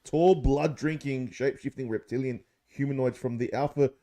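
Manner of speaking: slow, deliberate read-aloud of an article. Acted. To his mates, reading David Icke's theory aloud, slow and deliberate. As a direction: read it out like a text, mildly dramatic.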